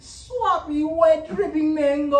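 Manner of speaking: high hammed-up vendor voice, laughing; mock seductive vendor voice. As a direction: overdo the mango seller, laughing. Mocking the mango lady.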